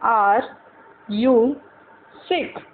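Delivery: each word spaced out with pauses; slow drilled English, one word at a time. Shown as a demonstration. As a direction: say it slowly for learners to repeat. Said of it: "मैं इतना धीरे धीरे बोल रही हूँ".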